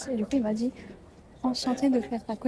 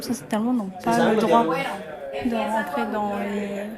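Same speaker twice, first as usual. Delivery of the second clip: laughing; 4 dB louder, slower than usual. Real, not acted. Rit en expliquant la règle.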